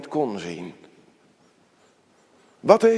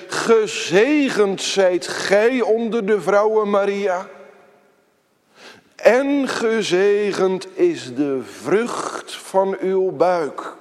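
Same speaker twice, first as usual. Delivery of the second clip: raised, slow and full-voiced blessing; loud proclamation; 3 semitones higher, 3 dB louder, slower than usual. Preacher retelling Elisabeth crying out to Maria, raised proclaiming voice. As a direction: call it out to Maria with a big voice. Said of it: "Ze schreeuwde en zei".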